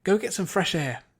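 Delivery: stern landlady ordering her outside; barked order. Acted. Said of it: "the woman had barked".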